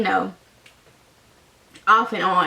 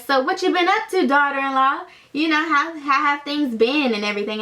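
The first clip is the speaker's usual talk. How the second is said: higher, fast, friendly imitation of a dad; ex's dad chatting; 4 semitones higher than usual. Ex's dad quizzing her at the booth, higher fast chatty voice. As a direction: breeze through it like a chatty nosy dad.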